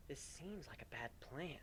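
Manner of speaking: doubtful. Acted. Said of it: "Warden stated with a frown".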